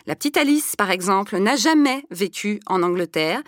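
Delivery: measured documentary narration read; news voice-over. Acted. Reporter narrating a school report for viewers, steady news read.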